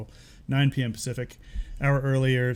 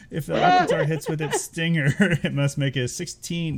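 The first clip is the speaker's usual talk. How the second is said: laughing while reading; 4 semitones higher, 4 dB louder than usual. Real, not acted. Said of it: "I can't even say it without laughing".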